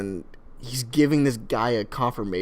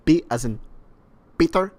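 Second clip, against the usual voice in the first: imitated Middle Eastern accent, raised questioning end; 4 semitones higher, 4 dB louder than usual. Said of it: "he's putting on a Middle Eastern accent".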